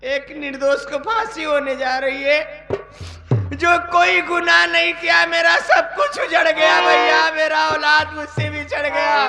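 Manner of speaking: crying out to God in despair; anguished lament. Acted. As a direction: wail over a ruined life. Sister lamenting her ruined life.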